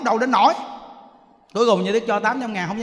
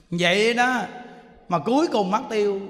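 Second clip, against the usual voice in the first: normal talking voice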